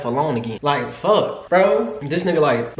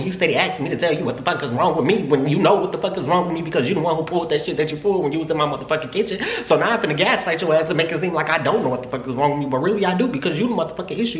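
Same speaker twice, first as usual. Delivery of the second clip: heated rant; 4 semitones higher than usual. Retold or imitated. Drunk rant at ex in car.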